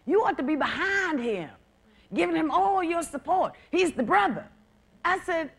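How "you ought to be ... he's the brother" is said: mock people. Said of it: "And people say".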